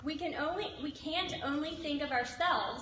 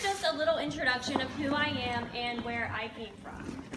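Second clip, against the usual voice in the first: out of breath. Real, not acted. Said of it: "Sorry, I'm out of breath".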